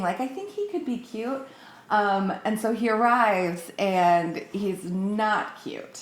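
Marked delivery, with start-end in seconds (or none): 0.2-1.5 squinting. Retold or imitated.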